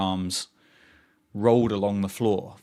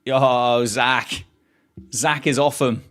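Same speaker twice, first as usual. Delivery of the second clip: excited cheer; 2 semitones higher, 5 dB louder, slower than usual. Real, not acted. Streamer cheering a wicket to viewers, loud excited whoop. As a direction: shout it out to the stream.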